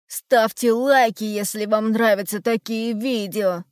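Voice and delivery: hurried shout. Acted. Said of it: "только и успел крикнуть Хрум".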